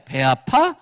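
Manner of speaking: caring echo. Shown as a demonstration. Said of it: "이렇게 해주시면 되는 거예요".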